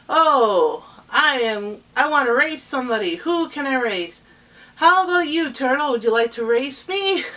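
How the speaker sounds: loud, high, cocky rabbit voice; boastful rabbit. Acted. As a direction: show off, hunting for someone to race. Boastful rabbit challenging everyone.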